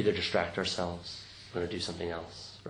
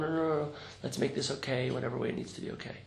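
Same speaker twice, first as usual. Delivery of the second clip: anxious fixer; 5 semitones higher, faster than usual. Acted. Voices others hurrying to fix things.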